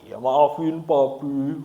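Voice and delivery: put-on slow, teary kid pleading sorry; tearful child apology. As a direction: lightly imitate a crying child. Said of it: "dengan muka nangisnya gitu". (anak menyesal minta maaf sambil menangis pelan)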